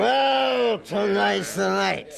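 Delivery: menacing shout. Acted. Drunk tavern brute threatening to collect his wager, shouting. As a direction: spit it out like a drunk bully about to fight.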